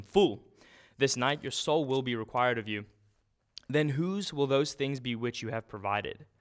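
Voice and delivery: loud, stern voice of God calling him a fool; stern rebuke. Acted.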